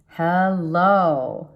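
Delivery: welcoming a new love with a teasing hello; drawn-out flirty hello. Pretend. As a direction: greet a new lover with a knowing drawl. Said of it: "I don't know why I have to say it like that".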